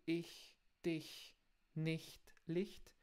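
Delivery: ich, dich, nicht, Licht with a soft hissing ch; slow demo of the ich sound; soft German ch. Shown as a demonstration. Teacher models the soft ch for learners. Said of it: "palavras tipo".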